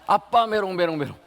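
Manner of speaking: put-on high toddler teasing, fading; child taunting. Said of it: "하는 거예요".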